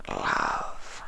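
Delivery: a starving creature barely able to speak; weak changeling. A narrator's reading. Changeling answers.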